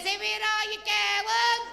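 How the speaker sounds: high, slow bright question; lightly voiced bubbly stylist; chirpy hairdresser.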